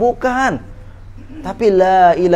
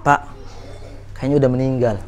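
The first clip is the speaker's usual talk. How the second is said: retold whisper; 5 semitones lower, 7 dB quieter than usual. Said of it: "saya bisikin".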